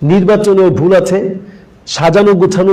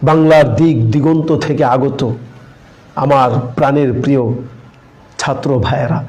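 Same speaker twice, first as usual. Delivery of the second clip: stiff artificial address; 4 semitones lower than usual. Shown as a demonstration. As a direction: overdo the formal address. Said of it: "এমন কাঠিন্য প্রকাশ পাচ্ছে কিনা". (কৃত্রিম কঠিন সম্বোধন, ধীরে)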